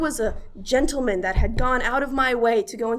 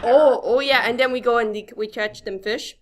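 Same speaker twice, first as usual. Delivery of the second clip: put-on Minnesotan accent. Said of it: "Northern Minnesotan".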